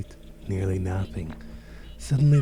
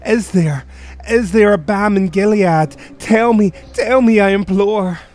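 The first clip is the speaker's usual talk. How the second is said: loud, high frantic demand; desperate imploring; 10 semitones higher, 6 dB louder than usual. Acted. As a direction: demand the truth from the raven. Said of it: "said I".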